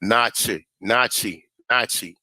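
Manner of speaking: Nachi said as NAH-chee; pronunciation demo. Shown as a demonstration. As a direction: repeat "Nachi" as NAH-chee, falling each time. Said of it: "That's how they pronounce it".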